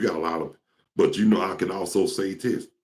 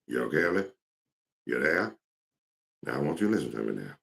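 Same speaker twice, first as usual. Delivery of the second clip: a singer; 3 semitones lower, 5 dB quieter, faster than usual. Retold or imitated. Showing how the singer talks to a woman, light drawling imitation. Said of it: "He sound like this".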